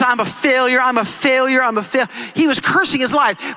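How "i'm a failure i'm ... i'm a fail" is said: repeating in despair. Retold or imitated.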